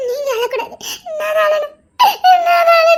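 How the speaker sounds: crying. Acted. Wife weeping over husband.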